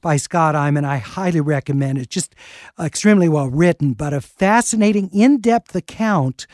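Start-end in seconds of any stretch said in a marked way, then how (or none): 0.0-0.8 measured on-air intro over music; radio announcer read. Acted. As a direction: welcome listeners back like a radio host. Radio host back from break.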